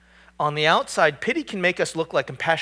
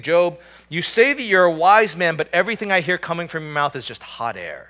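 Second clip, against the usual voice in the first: mocking; 3 semitones higher, 6 dB louder than usual. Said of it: "that's a terrible thing to hear".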